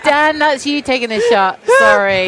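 shouting through laughter; laughing. Real, not acted. Laughing at friend's forfeit.

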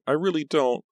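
high, upset protest; helpless high-pitched insistence; flustered. A narrator's reading. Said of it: "Pam stammered".

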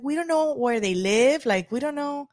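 put-on a kid's voice pitched high; imitating daughter. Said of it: "she's like".

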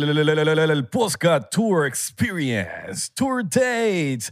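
ad announcer voice. Retold or imitated. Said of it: "publicidad ... que hace Baldomero Martínez".

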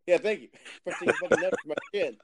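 talking while chewing a snack; words around a bite of food; mouth full. Real, not acted. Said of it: "what are you snacking on right now".

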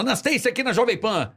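imitating radio hosts. Explaining how the radio guys say it, imitated announcer voice. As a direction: do the Jovem Pan guys' on-air lilt. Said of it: "todos os caras falam".

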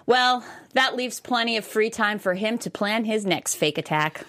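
comic news anchor delivery; mock newscast read. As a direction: read it out like a headline with a punchline. Reads joke news headlines.

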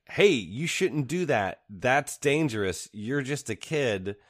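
chiding adult. Retold or imitated. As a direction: scold a kid gently, mock-serious. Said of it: "there's even adults in there that are like".

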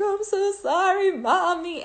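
put-on high little kid voice, lightly done; imitating kids. Retelling her kids apologizing at Easter, in a high child voice. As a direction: mimic a sorry child. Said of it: "they were like".

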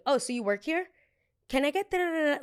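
high, mocking snooty voice; mocking snob. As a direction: mimic a rude diva. Mocking her dismissive question.

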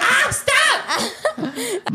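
mock panic. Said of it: "When I get here, I freak out".

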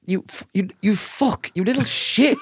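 high, mock furious insult; hammed-up rage at a kid; mock angry outburst. Retelling a colleague's outburst, hammed-up angry.

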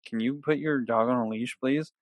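calmly asking, voice kept down. Retold or imitated. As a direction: imitate a man politely keeping his cool. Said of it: "He was just so calm".

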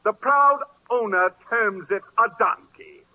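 showman mocking the donkey. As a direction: play the crowd for laughs. Dealer mocks donkey to crowd.

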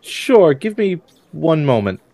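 a hint of an obliging woman; woman behind the door. Woman answers inspector through the door, lightly voiced. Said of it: "you can kinda hear her".

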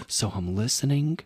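whispered narration; whispering. Retold or imitated. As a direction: keep it hushed, listening hard. Hearing noise behind the door.

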